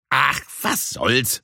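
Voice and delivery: slow, resigned give-in; shrugging. Acted. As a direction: let it go with a slow sigh of a line. Sushi gives in. (langsam, resigniert)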